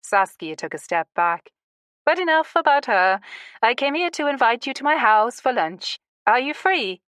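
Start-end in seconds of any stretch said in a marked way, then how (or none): 2.0-7.0 excited. Acted. Saskia brightly changes subject.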